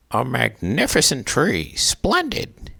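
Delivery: high, loud delighted exclamation; cried out in delight. A narrator's reading. Mister Willoughby admiring his new tree, delighted cry. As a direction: exclaim over the tree, thrilled. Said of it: "he cried".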